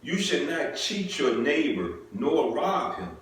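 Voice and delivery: measured formal Bible reading; scripture reading. Acted. Preacher reading scripture to the congregation, measured and solemn. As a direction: read the law slowly and solemnly. Reads Leviticus aloud.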